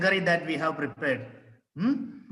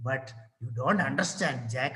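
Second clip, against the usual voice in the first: sobbing a little; 6 semitones lower, 6 dB quieter than usual. Acted. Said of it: "Jill, sobbing a little".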